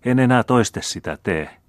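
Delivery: high, earnest promise; a young sister's high pleading promise. Acted. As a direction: beg him, promise never again. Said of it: "rukoili tyttö".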